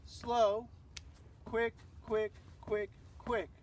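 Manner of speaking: rhythmic slow-slow-quick-quick counting; dance timing count. Shown as a demonstration. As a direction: call out the rhythm for a dance class. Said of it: "The timing".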